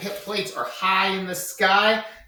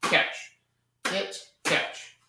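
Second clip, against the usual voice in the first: soft rhythmic cues; 3 semitones higher, 4 dB quieter, much slower than usual. Shown as a demonstration. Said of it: "Just do one hit and catch".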